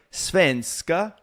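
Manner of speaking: SVENSKA lilting up at the end; rising lilt. Shown as a demonstration. Quoting an example of Swedish tones, SVENSKA rising. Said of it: "it was like".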